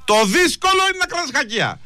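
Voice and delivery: solemn sermon-style lecture, a touch hammed-up; mock life lesson. Host lecturing the caller on forgiveness, mock-solemn sermon. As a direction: preach it like a wise teacher to the listeners. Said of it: "Θα δώσω ένα μάθημα ζωής".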